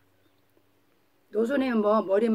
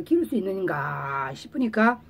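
ordinary talk

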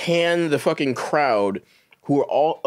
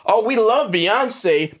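fake sudden love; 5 semitones higher, 4 dB louder, much slower than usual. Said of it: "by Wednesday".

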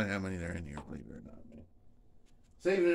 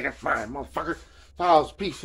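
louder, higher grabbing claim; mock greedy yell; 4 semitones higher, 5 dB louder than usual. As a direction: bark it like snatching a bargain.

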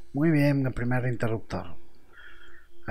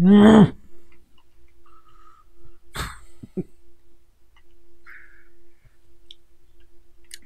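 loud laugh; 8 dB louder than usual. Real, not acted. Frustrated gaming laugh.

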